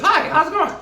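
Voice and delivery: very high, loud cutesy hello; sweet friendly greeting. Pretend. The scary-looking actor greeting fans in real life, very high and sweet. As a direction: squeak it out like a gentle giant.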